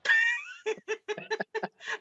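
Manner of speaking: high nervous giggle; awkward giggle, not knowing what to say; nervous laugh. Real, not acted. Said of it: "That was like a nervous giggle".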